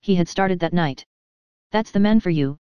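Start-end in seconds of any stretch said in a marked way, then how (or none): 1.7-2.6 a touch of bitterness, lifted on "man" then falling; bitter. Acted. Aunt grumbling about the absent minister, mildly bitter. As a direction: say "That's the man for you" with a mild bitter edge. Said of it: "said Aunt Philippa bitterly".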